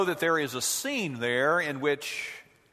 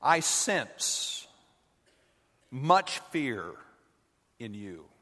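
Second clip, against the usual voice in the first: a hint of Yoda; 3 semitones lower, slower than usual. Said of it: "Yoda pauses and sighs".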